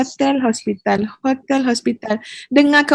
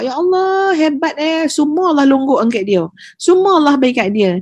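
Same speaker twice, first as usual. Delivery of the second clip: envious admiration; 4 semitones higher than usual. Retold or imitated. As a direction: imitate someone marvelling at another's luck. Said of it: "tak payah nak dengki-dengki kat orang". (nada kagum bercampur dengki)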